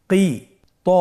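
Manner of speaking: কি then ত split apart; teacher spelling out syllables. Shown as a demonstration. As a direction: break the word into its syllables. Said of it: "ভেঙে ভেঙে পড়তে হয়".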